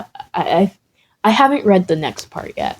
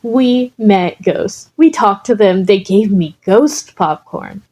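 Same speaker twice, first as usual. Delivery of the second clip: exhilarated; 2 semitones higher than usual. Acted. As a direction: burst with thrill. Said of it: "Izuku looked exhilarated".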